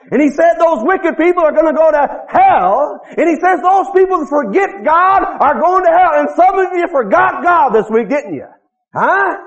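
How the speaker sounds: forceful preaching. Real, not acted. Preacher warning congregation about forgetting God, forceful. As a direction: press the warning on the congregation, pitched high.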